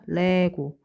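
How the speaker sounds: slow dictation with gaps between words; deliberate word-by-word recital; memorization mnemonic. Shown as a demonstration. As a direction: separate each syllable for memorizing. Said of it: "이렇게 외우시면 되는데요".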